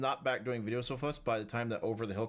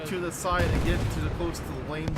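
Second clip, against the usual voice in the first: thick Southern drawl; 4 semitones higher, 4 dB louder than usual. Shown as a demonstration. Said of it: "This isn't English".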